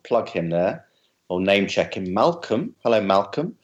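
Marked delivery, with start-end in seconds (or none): none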